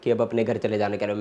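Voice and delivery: low, soft, controlled dismissal; calmly insistent. Acted. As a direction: drop the volume and state it coolly. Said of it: "मैंने आपको आराम से कहा ना".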